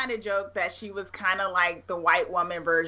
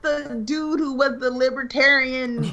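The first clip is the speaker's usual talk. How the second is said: laughing; 4 semitones higher, 4 dB louder than usual. Retold or imitated. Retelling recognizing him, laughing.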